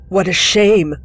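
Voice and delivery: loud fake pity; mock pout. Leader mocking the kid, pouting fake pity. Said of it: "He pouted".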